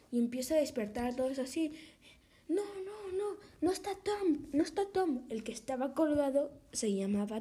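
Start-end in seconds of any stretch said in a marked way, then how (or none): 2.5-5.2 high, crying panic; panicked crying. Acted. Camper screams to the sleeping campers, crying in panic. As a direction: wail it like you just saw a body. Camper finds Tom hanged.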